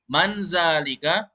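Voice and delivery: slow, rising question; teacher modelling slowly; slow model reading. Shown as a demonstration. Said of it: "Coba ulangi".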